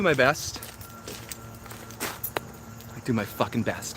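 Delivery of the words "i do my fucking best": muttered under breath. Real, not acted. Muttered self-deprecating repeat.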